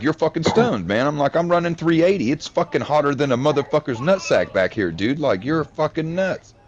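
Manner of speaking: high, exasperated disbelief at the boss; scoffing at a crazy speed order; incredulous retort. Retold or imitated. Arguing over conveyor speed.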